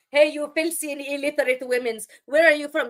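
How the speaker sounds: lightly voiced mocking commenter; mocking imitation. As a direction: quote the troll with a sneer. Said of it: "somebody's stream and go".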